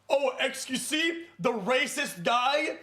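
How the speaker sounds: lightly voiced imitation of Sean; Sean impression. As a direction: mimic Sean's sneering question. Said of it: "it's a terrible impression".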